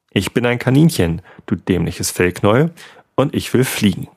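cheeky. Acted. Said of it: "antwortete frech".

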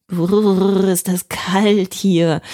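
slow, shivering brrr with chattering teeth; freezing in pyjamas. A narrator's reading. Finn arrives in the ice hotel, shivering with cold. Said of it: "bibbert mit den Zähnen".

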